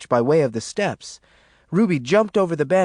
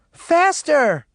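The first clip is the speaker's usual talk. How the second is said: high, loud urgent command; shouting; 13 semitones higher, 9 dB louder than usual. A narrator's reading. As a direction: shout to speed the escape. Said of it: "Maureen shouted at Yellow Jack".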